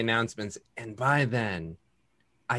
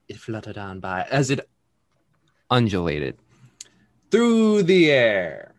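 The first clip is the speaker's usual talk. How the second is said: story narration. Acted. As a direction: set the scene like a storyteller. GM recap narration.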